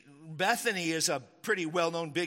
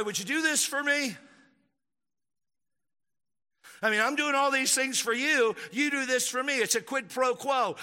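mock plea to God, higher pitched; bargaining prayer; 4 semitones higher than usual. Preacher voicing a self-serving believer's prayer, bargaining. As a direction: rattle off your good deeds like you're owed.

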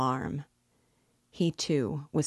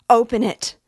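high, loud cry through a shut door; alarmed, high-pitched shout; calling out; 8 semitones higher, 12 dB louder than usual. A narrator's reading. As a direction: shout urgently for someone to open up. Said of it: "she called".

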